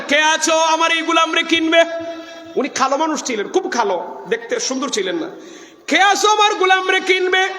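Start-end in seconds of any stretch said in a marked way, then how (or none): 0.1-1.8 high, level chanted call. Retold or imitated. Prophet calls who will buy this servant, raised chant. Prophet voiced calling for buyers. 5.9-7.5 high ringing chanted call. Retold or imitated. Prophet offers his servant for sale, high calling chant.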